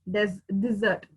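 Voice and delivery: dessert with the stress on the second part, "di-ZERT"; dessert pronounced. Shown as a demonstration. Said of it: "D E S S E R T is".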